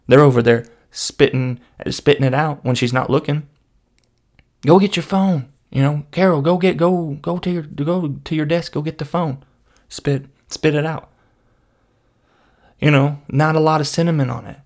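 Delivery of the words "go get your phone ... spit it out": a hint of a panicked coworker; urgent coworker whisper-plan. Coworker urging another to go spit out the churro, high and hurried.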